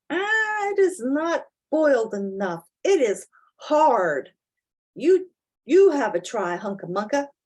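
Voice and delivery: lightly voiced hurt little mouse; a hint of a squeaky mouse whining over tough ham; mild mouse fussing; mouse complaining. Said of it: "The knife crumpled up and hurt him".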